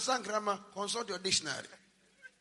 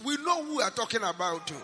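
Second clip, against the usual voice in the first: loud scolding; 6 dB louder than usual. Real, not acted. Preacher scolding the congregation.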